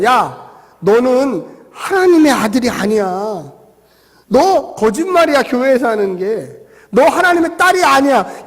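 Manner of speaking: mocking, accusing challenge. Satan jeering at a believer about being God's child, mock taunting. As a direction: needle the believer with taunting questions. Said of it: "사탄이 나에게 조롱을 해요".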